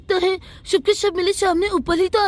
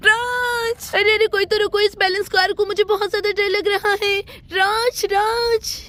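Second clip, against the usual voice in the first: scared calling out; 3 semitones higher than usual. Acted. Simran on the runaway car, calling Raj in fright. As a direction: call for Raj in a panic.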